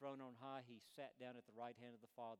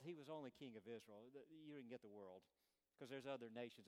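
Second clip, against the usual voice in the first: ordinary delivery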